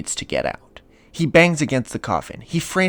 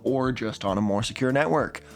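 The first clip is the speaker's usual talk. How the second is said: higher-pitched, teasing host sales pitch; playful ad read; 6 semitones higher than usual. Acted. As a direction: deliver a tongue-in-cheek sponsor message. Host performs a VPN ad read.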